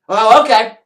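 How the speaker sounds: hammed-up meek okay; mock meek reply. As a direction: back down with a show of innocence. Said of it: "retold reply to waiter".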